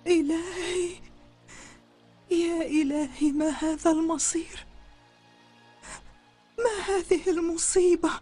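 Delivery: slow, tearful moaning; despairing lament. Acted. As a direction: lament your fate as if doomed. Frightened woman laments her doom.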